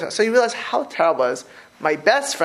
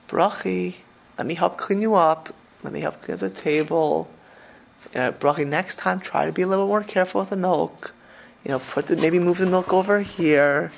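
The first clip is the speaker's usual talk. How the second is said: calm, gentle correction. Shown as a demonstration. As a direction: demonstrate gently helping instead of screaming. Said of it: "And instead of screaming, say".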